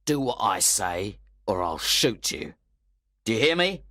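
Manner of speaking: loud menacing threat; threatening thug. Acted.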